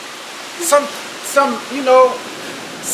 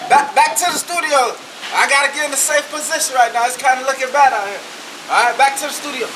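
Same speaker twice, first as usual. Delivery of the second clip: mock news reporter.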